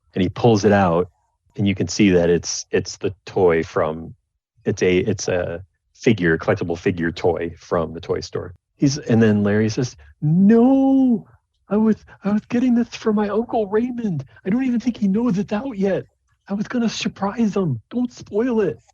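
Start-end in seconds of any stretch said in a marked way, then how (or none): 10.3-18.8 anxious, pleading halfling voice, very high-pitched and nervous. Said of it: "he says nervously".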